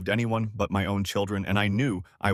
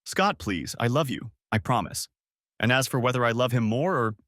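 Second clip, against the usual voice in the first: softened tone. Acted. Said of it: "Her tone softened".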